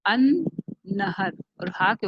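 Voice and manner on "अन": अन held on a doubled n, louder; double n sound. Shown as a demonstration. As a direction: lean on the n in अन. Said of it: "देखें double sound आ रही है नून की".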